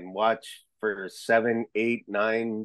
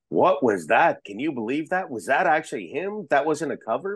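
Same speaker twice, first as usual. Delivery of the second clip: imitating amazed fans, higher pitch; mock astonishment, voice lifting with each question; incredulous fans; 3 semitones higher than usual. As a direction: rattle off disbelieving questions as excited fans would. Fans' astonished messages acted out.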